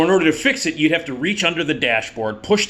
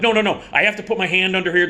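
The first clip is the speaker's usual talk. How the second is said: higher, urgent retold protest; anxious pleading; 4 semitones higher, faster than usual. Man at gunpoint explains to cop, urgent pleading. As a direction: plead and explain in mild panic. Hastily reassures armed cop.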